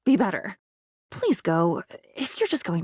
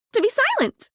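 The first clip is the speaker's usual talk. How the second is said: eerie reveal; 13 semitones higher than usual. Acted. Dramatic reveal of new trick.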